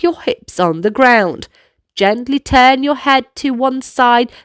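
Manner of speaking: put-on lively kids' dance leader; upbeat instructions for little dancers; movement coaching. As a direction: lead the children through the moves.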